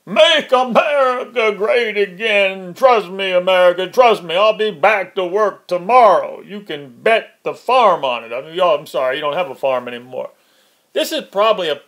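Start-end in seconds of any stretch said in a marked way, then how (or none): 0.1-8.3 lightly hammed-up politician's pledge; mock Trump. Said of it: "after he tweets".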